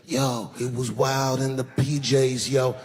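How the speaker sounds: slow, laid-back street drawl; mock rapper slang; imitating a rapper. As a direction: lean back into the projects talk. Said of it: "rappers and them".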